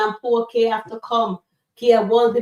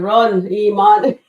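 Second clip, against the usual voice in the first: laughing quote; 8 dB louder, slower than usual. Retold or imitated. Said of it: "Alani said".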